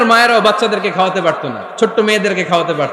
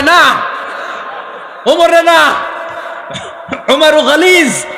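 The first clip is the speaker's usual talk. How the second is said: acted frightened refusal; 7 semitones higher, slower than usual. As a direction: refuse in mock alarm, pitched well up. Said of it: "আমার ডর লাগে". (ভয় পেয়ে জোরে আপত্তি)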